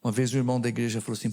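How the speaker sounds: normal talking voice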